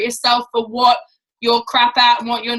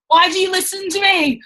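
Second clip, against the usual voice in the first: much higher, mock despairing; exasperated cry; 7 semitones higher than usual. Telling the team about her niece, in high mock despair. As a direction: throw it up high in playful disbelief. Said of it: "I'm like".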